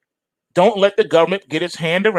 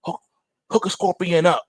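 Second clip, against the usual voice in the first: scorpion voice; 4 semitones higher than usual. Acted. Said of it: "Scorpion says".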